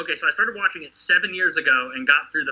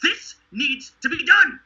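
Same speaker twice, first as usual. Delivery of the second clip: bold call to act; 7 semitones higher than usual. Retold or imitated. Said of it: "nobody had the fucking balls to go".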